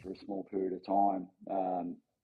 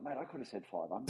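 rueful laugh; 7 dB quieter than usual. Retold or imitated. Dad kicking himself, laughing retelling.

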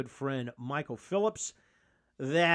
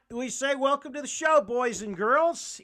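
show host greeting; 11 semitones higher than usual. Acted. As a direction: announce it like a game-day host.

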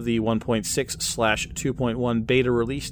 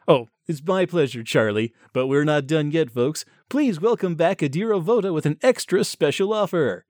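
lightly voiced shopping channel host; chummy on-air product banter; home shopping host; 4 semitones higher, 3 dB louder than usual. Host introduces guest.

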